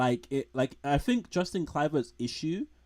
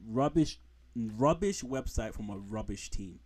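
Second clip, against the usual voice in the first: mock disgust. Real, not acted. Mocking West Ham website.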